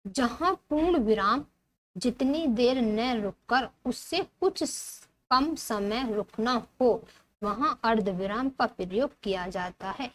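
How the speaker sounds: slow, spaced-out reading; textbook read-aloud. Acted. Teacher reading the semicolon rule, slow read-aloud.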